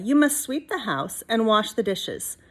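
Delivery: a hint of a stern grandmother giving orders; gently bossy witch; lightly voiced old witch. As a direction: lay down the chores firmly. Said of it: "said Stregonona".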